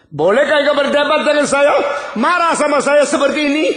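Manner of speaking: high, loud outraged voice of God; thundering rebuke. Acted. God rebuking Jonah for arguing, in a high thundering voice. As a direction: bellow it down at a defiant prophet.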